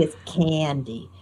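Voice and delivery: "candy" in a New Jersey accent, vowel nasal and drawn; slow, soft New Jersey "candy". Shown as a demonstration. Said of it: "but in New Jersey".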